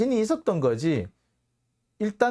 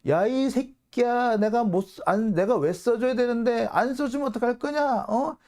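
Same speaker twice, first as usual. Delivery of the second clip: higher, rough put-on cursing; imitating a boss swearing at a partner; mock menacing abuse; 7 semitones higher than usual. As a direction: hurl insults in a raised mock voice. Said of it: "아주 험악하게 얘기합니다".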